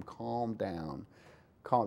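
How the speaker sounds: low, very soft calming words; hushed mouthing. Pretend. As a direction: barely voice it, as if mouthing to your kid. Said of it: "slowly push them down and mouth to him".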